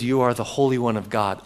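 lightly voiced demon, a bit low; a hint of a possessed demon. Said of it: "I'm gonna try to do my demon voice".

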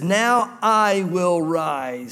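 slow drawn-out proclamation; the Lord rising. Acted. The Lord announcing judgment, slow weighty proclamation. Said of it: "he says".

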